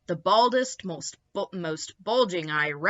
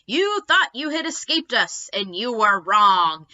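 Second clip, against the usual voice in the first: louder, menacing alien voice; gloating aliens; 2 semitones higher, 8 dB louder than usual. Acted. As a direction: lord it over captives.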